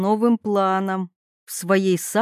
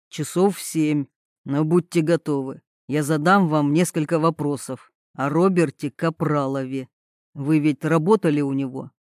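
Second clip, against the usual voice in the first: low male voice; 6 semitones lower than usual. A narrator's reading.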